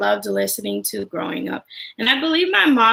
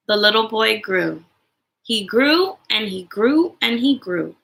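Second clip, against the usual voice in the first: storybook reading. A narrator's reading. Mom reading a favorite picture book to other moms, gently. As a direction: read it like bedtime for little ones.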